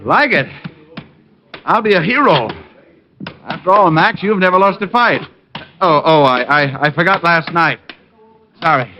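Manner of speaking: high, eager, starstruck gush; gushing fan. Pretend. Detective buttering up the boxer, gushing starstruck fan. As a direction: lay the flattery on thick like an awed fan.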